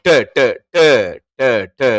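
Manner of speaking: ட said crisply as "ta" several times; teacher demo of ட; modelling the letter ட; ட drill. Shown as a demonstration. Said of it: "அந்த டேயை தான் உச்சரிக்க போறோம்".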